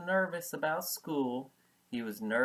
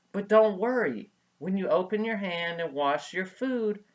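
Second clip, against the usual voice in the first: higher, louder reassuring mother raccoon; mother's voice; 7 semitones higher, 7 dB louder than usual. Acted. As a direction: comfort your child as mom.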